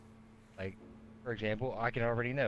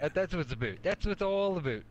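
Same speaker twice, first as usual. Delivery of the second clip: mock Canadian accent; 5 semitones higher than usual. Teasing the other's Canadian accent.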